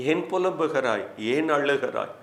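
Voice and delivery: soft, caring questions; tender inquiry. Acted. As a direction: ask the weeping one gently. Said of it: "இப்படி விசாரிக்கிறவர் தான் உங்கள் நல்ல தேவன்". (மென்மையான, கரிசனையான விசாரிப்பு)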